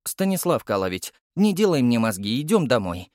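put-on a bossy little kid ordering an adult; lisping toddler. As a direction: toddler calling the captain home. Toddler nags the captain.

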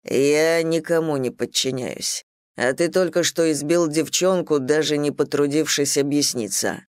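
deep voice. Acted. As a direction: speak from the chest, measured. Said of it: "глубоким голосом проговорил".

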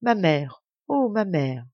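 a feigned tearful lament; hammed-up cry over the mother; mock lament. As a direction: lamentation feinte. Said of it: "l'embrasse en lui répétant".

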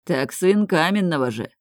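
ordinary delivery

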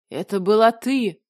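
loud accusing roar. A narrator's reading. Dragon recognizing the woman from before, loud roar. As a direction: roar out the realization. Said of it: "взревел дракон".

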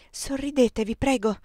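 voiced stage whisper, a touch of anger; angry whisper. A narrator's reading. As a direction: urge him with contained irritation. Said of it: "gli bisbigliai incollerita".

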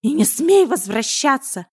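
slow, loud warning to never come back; furious hiss. Acted. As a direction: spit the words at the beaten cat. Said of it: "прошипел Миун".

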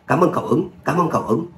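lightly acted hurried double thank-you; overjoyed thanks. A narrator's reading. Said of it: "Văn Hải mừng rỡ, vội vàng đáp".

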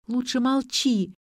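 measured, mildly stern command. A narrator's reading. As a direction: tell them off firmly. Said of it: "велела Ксения отцу".

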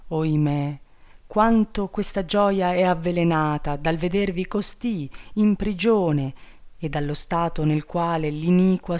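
rejoice, then lament her prison; impassioned bird king. Acted. Bird king rejoices to see princess, then grieves.

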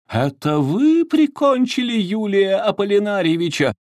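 loom over him accusingly; menacing. A narrator's reading. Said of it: "угрожающе навис". (угрожающе, медленно и громко)

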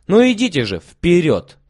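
eager urging. A narrator's reading. Lilya hurries everyone to the hall, eagerly. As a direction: rush them forward.

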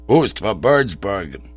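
slow, hushed reverence on the slogan; reverent echo. Acted. Townsmen echoing their motto, slow and reverent. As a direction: repeat it like a sacred creed. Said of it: "said the other chappies reverently".

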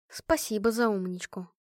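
ordinary delivery, nothing marked

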